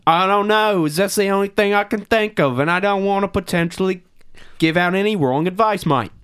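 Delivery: cheesy fake Australian accent; bad Australian accent. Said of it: "That's Australian. Bad".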